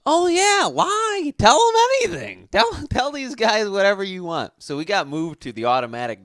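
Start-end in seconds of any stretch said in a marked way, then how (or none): 0.1-4.5 high, loud mock sales boss; sleazy boss voice. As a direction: egg them on like a shady manager. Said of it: "they're like".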